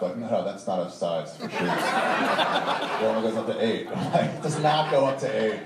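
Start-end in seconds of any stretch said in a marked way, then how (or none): 0.2-3.9 shoe clerk. Retold or imitated. Shoe clerk voiced in story.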